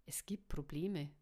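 hushed, low-key whisper. A narrator's reading. Will breaks bad news to the group, whispered. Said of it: "flüsterte Will".

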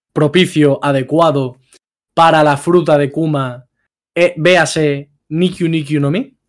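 pausado, formal, para la audiencia de TikTok; voz de presentador de TikTok. Shown as a demonstration. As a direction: presenta la pregunta como un presentador. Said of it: "Hazla, hazla de nuevo pa' TikTok". (pregunta en tono de presentador a la gente de TikTok)

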